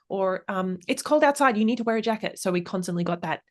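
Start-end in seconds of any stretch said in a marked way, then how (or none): 0.9-2.4 1 bossy parent. Retold or imitated. Parent telling child jacket.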